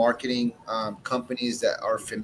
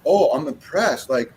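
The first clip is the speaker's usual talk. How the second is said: mock-amazed high gushing, slowing on the last words; impressed friend; 6 semitones higher than usual. Retold friend tasting his cigar, gushing in mock amazement. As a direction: play the stunned friend who can't believe it.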